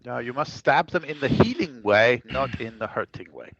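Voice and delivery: put-on light Austrian accent in character. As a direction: keep the Austrian accent going. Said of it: "your accent there, Aldrin".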